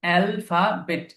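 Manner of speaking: অ্যালফাবেট slowly, syllable by syllable: al, fa, bet; broken into syllables. Shown as a demonstration. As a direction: stretch অ্যালফাবেট into three separate beats. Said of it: "খেয়াল রাখবেন".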